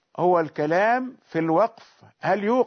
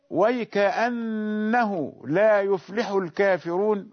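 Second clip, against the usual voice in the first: Quran recitation. Shown as a demonstration. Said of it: "وقوله تعالى".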